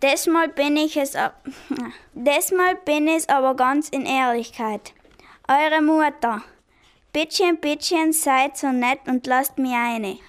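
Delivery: second try at German dialect, laughing mid-line; practising German dialect. Acted. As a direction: keep rehearsing German dialect. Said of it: "übte das Dialekt sprechen".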